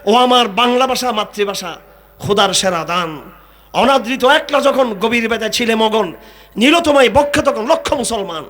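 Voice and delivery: slow, lilting recital of verse; poem recital. Shown as a demonstration. Preacher quoting a poet to the crowd, slow recital. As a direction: savour each line of the poem. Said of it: "একজন কবি বলেছেন".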